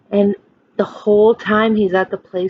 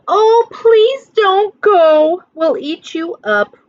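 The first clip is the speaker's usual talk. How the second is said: higher, louder drawn-out plea; pleading wild things; 9 semitones higher, 4 dB louder, slower than usual. Acted. Wild things begging Max to stay, lightly voiced pleading. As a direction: beg him not to leave. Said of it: "the wild things cried".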